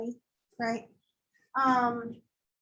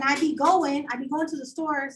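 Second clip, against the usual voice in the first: "I be going" lightly Southern; a hint of Georgia talk; Southern phrasing demo; 4 dB louder than usual. Shown as a demonstration. Teacher demoing Georgia phrasing to the class. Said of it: "I reckon is I think".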